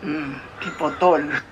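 low, slow "Chipotol" as tee-poh-tol; mother slowly sounds out the spelled word as tee-poh-tol; slow mispronounced chipotle. Real, not acted. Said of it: "Spell it".

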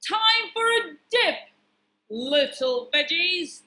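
high, loud villain taunt; gleeful storybook baddie; evil pea. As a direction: gloat over helpless captives.

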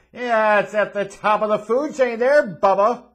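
loud, high, overblown cheering; sarcastic hype. Pretend. Host teasing a listener's courageous take, loud mock hype. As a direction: holler it in mock amazement.

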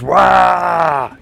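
orc war cry. Pretend. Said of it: "as the orcs call us".

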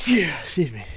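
hushed aside, no voice; breathy secret aside; whisper. Real, not acted. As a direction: whisper it as if sneaking out. Joking aside in a stream.

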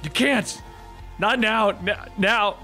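desperate protest. Acted. Wade panics over dead friend.

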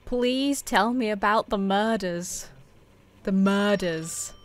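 slow, soft, careful request; careful enunciation. Real, not acted. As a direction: spell it out slowly and softly for a voice recognizer. Repeating for a voice-controlled game.

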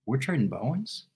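soft, hesitant question, imitating a timid fan; quietly retold sheepish disbelief. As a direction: ask it sheepishly, testing the water. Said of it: "very sheepishly, he says".

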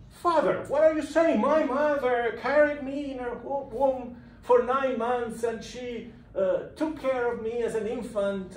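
high, outraged pleading; indignant protest. Retold or imitated. Chapelletto protesting to the priest, high and indignant. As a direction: play it scandalized, voice shooting up.

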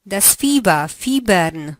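ordinary talk

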